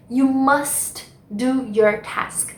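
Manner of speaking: slow, careful English; slow model phrase. Shown as a demonstration. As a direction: repeat the example slowly. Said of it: "Por exemplo". (frase devagar de novo)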